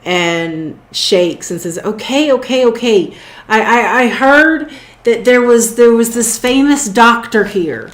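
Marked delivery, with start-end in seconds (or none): 1.8-7.9 lightly acted scared captive; shaken and shuddering. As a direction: give in nervously, tripping over words. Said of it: "he kinda shudders a little bit and, and shakes".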